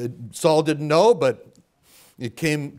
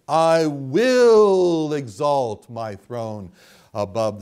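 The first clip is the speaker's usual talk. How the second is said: slow, drawn-out boast of Satan; Satan's boasts; 3 semitones lower, slower than usual. Acted. Preacher quoting Satan's boast of rising to heaven, slow and grand. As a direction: stretch each I will like a proud devil.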